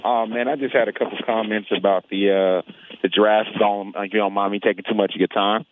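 speaking through a face mask; muffled voice behind a mask. Real, not acted. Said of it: "forgive me if I sound a little muffled".

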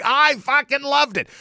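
high, slow gleeful gloat. Real, not acted. Gloating to the listener about McDougal's misery, high and slow. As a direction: savor every word.

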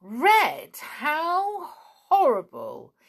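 high, loud horror at the idea; aghast, pitch leaping up; appalled. Acted. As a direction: recoil in exaggerated disgust. Snarl scorns the red cap.

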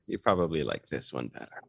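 mic test on the second, clearer mic; same line through the other microphone. Shown as a demonstration. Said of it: "that sounds so different".

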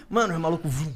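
usual speaking voice

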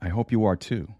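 usual speaking voice

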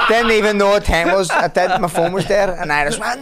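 high, loud words through laughter; real laughter in the voice; laughing while talking. Real, not acted. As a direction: tell it while still laughing.

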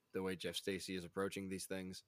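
whispering. Real, not acted. Unvoiced aside.

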